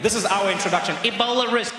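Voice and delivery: usual speaking voice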